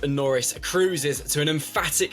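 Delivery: scripted newsreader delivery with punched key words; news headline read. Real, not acted. Presenter opens a racing show with the day's headlines, news read. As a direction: read out the headlines like a sports bulletin.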